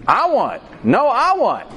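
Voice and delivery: put-on high, whiny kid voices grabbing for it; two kids fighting over one cupcake; squabbling kids. Preacher voicing kids fighting over a cupcake, high and whiny.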